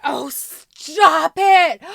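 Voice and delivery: slow, loud drawn-out gush; delighted disbelief. Real, not acted. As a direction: stretch it in giddy disbelief. Overjoyed at unboxing item.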